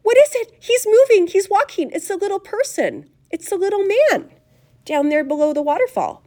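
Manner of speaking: put-on high, squealing girl's outburst; frantic, high-pitched excitement; screaming with excitement. A narrator's reading. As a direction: shriek each discovery out. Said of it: "screams of excitement".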